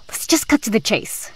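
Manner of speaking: hushed breathy aside; conspiratorial whisper. Acted. Girl pressing Holly in secret, whisper. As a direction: lean in and whisper it.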